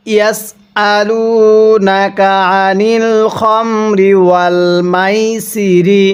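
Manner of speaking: slow, drawn-out tajweed recitation; Quran recitation. Shown as a demonstration. Teacher recites the verse slowly for students to copy. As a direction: chant each word slowly and clearly for students. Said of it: "কিভাবে পড়ব?".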